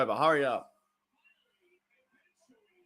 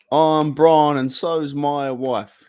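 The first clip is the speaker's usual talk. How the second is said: movie quote belted out; 6 dB louder, much slower than usual. Retold or imitated. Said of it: "Life of Brian is one of the funniest movies".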